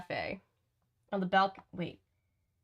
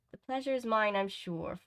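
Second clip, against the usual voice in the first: restrained, feminine character voice; the girl's voice; 2 semitones higher than usual. Acted. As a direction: play it as the polite girl. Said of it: "I thought that was the girl".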